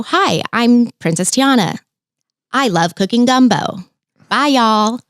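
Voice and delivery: short rehearsed character lines, mimicked; Princess Tiana. Performer imitating other girls who stick to stock lines, chirpy princess greeting. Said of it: "Some girls really will just stick to".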